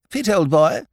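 mildly indignant silly lord; protesting lordship. A narrator's reading. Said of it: "protested his lordship".

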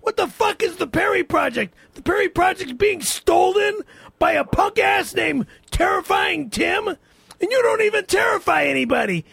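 shouting rant at a rival; angry rant. Acted. Radio host ranting at his rival, shouting. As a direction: rail against the punk stealing his project.

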